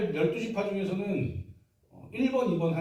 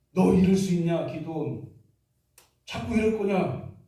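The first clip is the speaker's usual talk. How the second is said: loud, accusing reproach; mock scolding; 4 dB louder than usual. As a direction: scold him like a wronged tribe. Ephraim scolding Gideon, acted.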